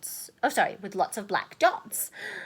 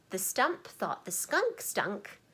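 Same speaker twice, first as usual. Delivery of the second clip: slow; 5 dB quieter than usual. Shown as a demonstration. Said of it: "It goes like this".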